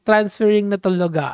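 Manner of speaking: lightly mocking konyo Taglish accent. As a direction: put on a mild konyo accent, stumbling over the English. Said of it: "konyo, konyo natics". (bahagyang pabirong puntong konyo)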